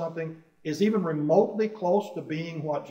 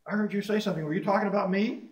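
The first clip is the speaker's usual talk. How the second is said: higher-pitched mock challenge; confrontational; 5 semitones higher than usual. Preacher playing an easily provoked member, confrontational. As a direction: act out a touchy person confronting someone.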